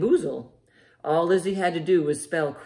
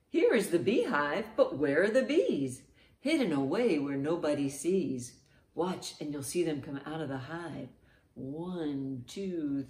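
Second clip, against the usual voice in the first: beehive rhyme. Shown as a demonstration. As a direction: hush it down then burst out at the end. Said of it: "Let's do two rhymes about beehives".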